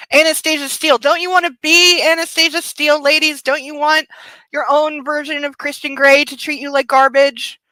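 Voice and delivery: high mock-sweet sarcasm; sarcastic teasing. To the ladies watching, a high, sarcastic tease. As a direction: needle the ladies with fake enthusiasm.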